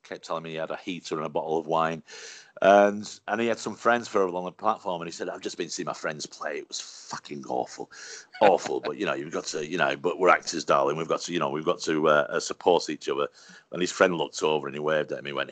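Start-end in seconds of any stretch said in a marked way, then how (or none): 5.3-13.3 lightly voiced camp thespian, pitched lower; camp old actor. Elderly actor chatting up comedian on tube platform, lightly camp. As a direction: do a hint of a theatrical old luvvie, low. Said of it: "very, very calm as well".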